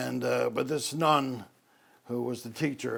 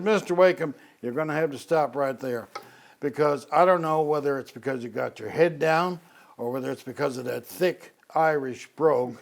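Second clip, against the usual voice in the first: Southern Virginian drawl, louder and exasperated at the start; 3 semitones higher, 5 dB louder than usual. Retold or imitated. Nun teacher stopping Newfoundland boy mid-sentence, Southern Virginian drawl. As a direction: imitate the Southern Virginian nun cutting him off. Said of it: "very distinctive Southern Virginian drawl".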